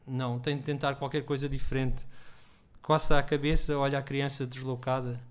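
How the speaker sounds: steady literary reading aloud; story reading. A narrator's reading. Author reading his story aloud to an audience, steady narration.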